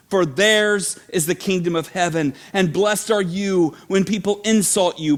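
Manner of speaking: measured preaching read of the Beatitudes; scripture reading. Acted. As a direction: proclaim each blessing with weight. Reads the Beatitudes.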